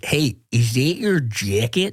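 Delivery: heavily laid-on, put-on Chicago-style accent. Showing off an accent on the podcast: chicago accent. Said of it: "That's my Chicago accent".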